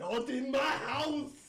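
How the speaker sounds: mock sheriff echo. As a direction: drawl it back at him in his voice. Player echoes the sheriff.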